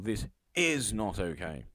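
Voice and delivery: "is" leaned on, the phrase slowed; drawn-out emphasis on "is"; stress on is. Shown as a demonstration. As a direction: slowly hit the word "is". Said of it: "you've emphasised the word is".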